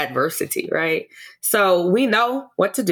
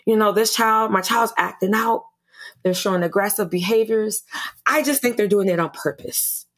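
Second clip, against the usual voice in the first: frustrated parent; 3 semitones higher than usual. Retold or imitated. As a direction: quote a parent's complaint with mild frustration. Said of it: "You can hear the frustration in that parent's voice".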